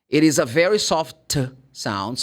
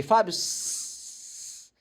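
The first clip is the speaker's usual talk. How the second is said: a whispered, higher call to the teacher; mock whisper; 8 semitones higher, 7 dB quieter, much slower than usual. Student whispers to the teacher, mock whisper. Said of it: "you say".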